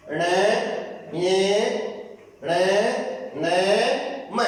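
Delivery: ण न म hummed through the nose; nasal letter drill; nasal sounds demo. Shown as a demonstration. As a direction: let the nose carry ण, न, म. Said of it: "नाक अपनी विशेष क्रिया कर रहा है".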